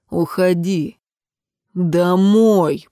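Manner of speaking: understated growl, stretched on the last word; a mild growl right in the face; growled order. A narrator's reading. Man ordering the girl home, lightly growled. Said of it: "прорычал он ей в лицо".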